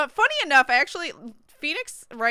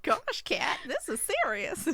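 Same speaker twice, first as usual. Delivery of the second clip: whispering; 3 semitones higher, 7 dB quieter than usual. Real, not acted. Whispered through laughter.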